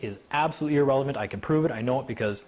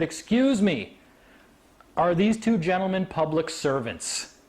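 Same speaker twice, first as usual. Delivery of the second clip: higher, measured acted question; retold courtroom challenge; pointed challenge; 4 semitones higher, slower than usual. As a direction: interrupt firmly and formally. Brother challenging sheriffs' presence.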